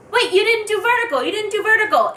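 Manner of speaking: high-pitched, urgent mock outcry; retold scream. Fan objecting to how the picture was taken, mock screaming. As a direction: blurt it high, in a fluster. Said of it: "But I screamed".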